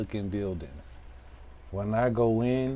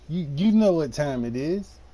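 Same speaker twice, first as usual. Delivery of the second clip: mock menace; 4 semitones higher, 6 dB louder than usual.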